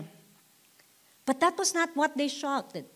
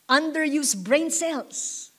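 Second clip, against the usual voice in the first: drawn out higher, each word weighed; slow and raised; 4 semitones higher, much slower than usual. Shown as a demonstration. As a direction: stretch out underused, pitched up. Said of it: "Can I repeat it?".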